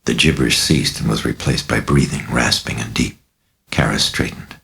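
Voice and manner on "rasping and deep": plain reading voice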